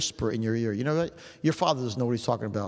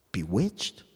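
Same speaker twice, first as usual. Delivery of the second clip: Bewitched? dropped much lower and hushed; low, dark echo; 7 semitones lower than usual. Shown as a demonstration. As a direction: repeat Bewitched? in a low, hollow voice. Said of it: "strong language".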